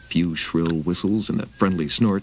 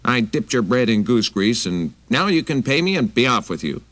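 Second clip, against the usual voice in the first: higher, louder stern lady; a touch of a gruff hostess; big lady voice; 6 semitones higher, 4 dB louder than usual. Acted. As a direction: demand it like a wary housewife. Big lady's voice.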